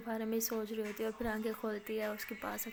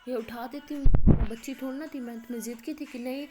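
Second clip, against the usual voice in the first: sulky complaint; 2 semitones higher, 9 dB louder than usual. Acted. Aliya pouts about being carried.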